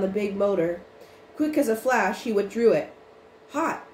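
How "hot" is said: amazed exclamation. A narrator's reading. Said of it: "he exclaimed, amazed".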